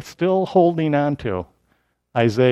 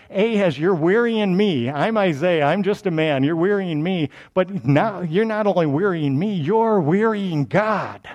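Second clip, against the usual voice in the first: lightly acted frustrated prophet; a touch of prophetic exasperation; exasperated prophet; 3 semitones higher than usual. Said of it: "He's like".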